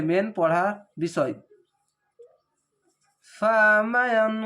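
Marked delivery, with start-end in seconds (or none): 3.3-4.3 ফামায়ান drawn out slowly, nasal hum on মাং; tajweed ghunna demo; slow recitation with ghunna. Shown as a demonstration. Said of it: "এখানে মাং, মাং".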